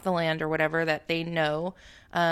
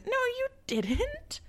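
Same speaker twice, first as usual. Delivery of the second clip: mocking retort; 4 dB quieter, much slower than usual.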